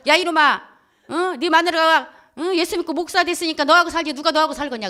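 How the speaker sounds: loud, high telling-off; acted scolding. Friend telling off the husband about his wife, loud scolding.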